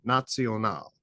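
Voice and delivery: "National" said the German way, "naht-see-o-nahl"; German pronunciation. Shown as a demonstration. Showing students where Nazi comes from, German pronunciation. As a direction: give "National" German vowels and a ts sound. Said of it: "the word national in German".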